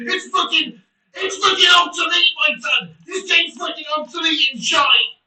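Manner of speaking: angry shout. Real, not acted. Streamer shouting the game is obsolete, angry shout. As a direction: bellow it out in disgust. Rant peaks again.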